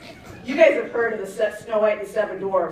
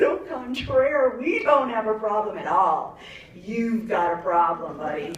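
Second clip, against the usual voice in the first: smug mom. Retold or imitated. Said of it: "And I said".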